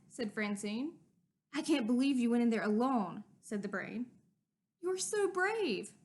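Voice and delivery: put-on lively storybook read-aloud for kids; animated children's story narration with character voices. A narrator's reading. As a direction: read it like story time with a class. Reading a picture book aloud to children.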